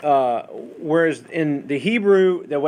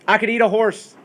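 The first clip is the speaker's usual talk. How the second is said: hammed-up exclamation; 9 semitones higher, 5 dB louder than usual. Acting out examples of figurative language.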